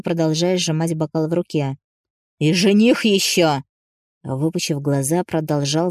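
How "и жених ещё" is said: agitated. Acted. Agitated owner continues.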